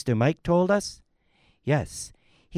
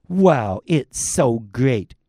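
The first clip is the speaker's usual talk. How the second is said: excited wow; 3 semitones lower, 6 dB louder, slower than usual. Acted. Commercial actor tastes juice.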